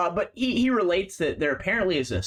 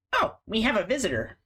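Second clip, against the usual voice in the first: put-on higher, quick creaky old rat voice; 9 semitones higher, faster than usual. GM voicing the old rat greeting the visitor, creaky. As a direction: announce the guest like an elder.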